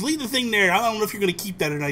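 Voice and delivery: high-pitched retold scolding; exasperated dad, acted out; mock angry dad. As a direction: imitate a parent laying down the law. Retold angry dad sending kid away.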